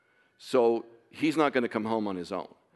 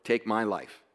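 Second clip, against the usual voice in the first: pleading prayer; 4 semitones lower, 4 dB quieter than usual. Retold or imitated. Father praying for his missing son, softly pleading. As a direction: beg God quietly for his son's life. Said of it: "I'm, like, pleading".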